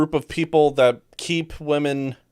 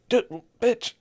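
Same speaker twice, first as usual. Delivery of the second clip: exasperated; 7 semitones higher, 5 dB quieter than usual. Retold or imitated. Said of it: "It's like".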